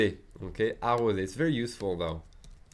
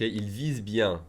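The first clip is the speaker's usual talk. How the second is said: slow and careful; slow classroom repeat; slow model phrase; slower than usual. Shown as a demonstration. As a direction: lay out each word slowly. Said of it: "teacher models sentence slowly".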